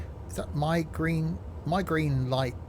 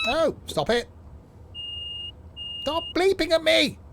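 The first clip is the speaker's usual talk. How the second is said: real frustration; exasperated; 14 semitones higher than usual. Real, not acted. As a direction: beg the machine to stop. Annoyed at bleeping cab.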